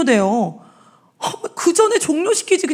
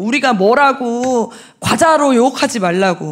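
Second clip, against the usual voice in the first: ordinary talk, nothing marked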